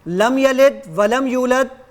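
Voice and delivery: slow, careless reading of "لم یلد ولم یولد" without proper tajweed; deliberately wrong recitation. Shown as a demonstration. Testing the app's tajweed check with a deliberately wrong, slow recitation. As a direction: drag out "لم یلد ولم یولد" deliberately mispronounced to test the app. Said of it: "اب میں اس کو غلط پڑھوں گا".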